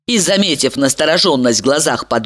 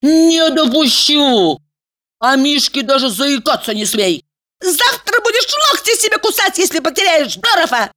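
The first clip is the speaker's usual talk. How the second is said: shrieking; 11 semitones higher than usual. A narrator's reading. Elizaveta shrieks at her friend not to lose Dorov. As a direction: screech in outrage. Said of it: "взвизгнула она".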